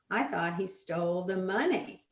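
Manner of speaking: "money" stressed, rising tune. Shown as a demonstration. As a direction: lift the word "money". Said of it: "stressing the words in a sentence".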